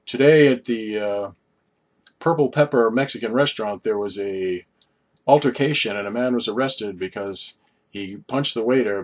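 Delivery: imitating a TV news report; mock news anchor. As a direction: read it like a local news anchor. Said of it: "you sometimes see people go like".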